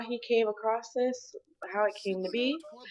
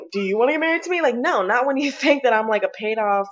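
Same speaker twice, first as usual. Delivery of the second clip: heated loud retelling; 7 dB louder than usual. Real, not acted.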